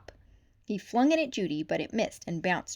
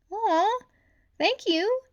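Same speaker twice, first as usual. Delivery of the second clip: grateful; 13 semitones higher, 6 dB louder, slower than usual. A narrator's reading. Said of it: "said the shrew gratefully".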